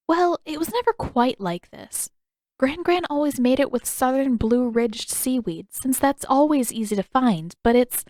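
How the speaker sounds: put-on a girl chatting, then catching herself; Katara, easy then unsure; young Katara. Katara talks about Gran Gran.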